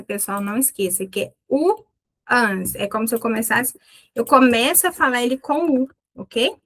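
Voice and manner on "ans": "ans" as the vowel-led ending of "once"; pronunciation demo. Shown as a demonstration. Teacher showing students how "once" sounds, pronunciation demo. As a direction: sound out "ans" after the opening "o". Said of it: "Once, na pronúncia".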